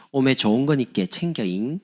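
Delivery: loud Jeolla dialect with tailing "잉". Acted. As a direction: imitate a Jeolla local giving a gift. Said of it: "전라도". (전라도 사투리로)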